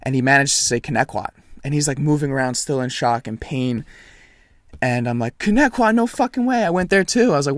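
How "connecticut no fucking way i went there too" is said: high-pitched, retold happy surprise; light up at a shared connection; acted-out delighted disbelief; feigned amazement. Acting delighted surprise to distract kid.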